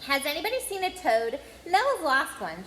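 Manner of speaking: lightly voiced know-it-all; bossy girl. Girl asking the boys about the toad, a touch bossy. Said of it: "She had a bossy sort of voice".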